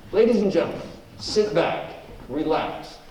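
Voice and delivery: show-opening announcer read; radio announcer. Acted. Host opening the live show to the audience, announcer read. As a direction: welcome the audience to the broadcast.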